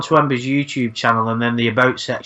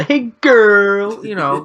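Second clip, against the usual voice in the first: lightly voiced creepy greeting, higher and louder; a sleazy little hello, half-mocking; mimicking Lorne; 7 semitones higher, 4 dB louder, much slower than usual. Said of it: "these little sayings".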